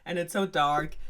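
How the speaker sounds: high, loud, hammed-up lament; mock wailing princess. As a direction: wail over it like a spoilt fairy-tale princess. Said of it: "crying and crying and is like".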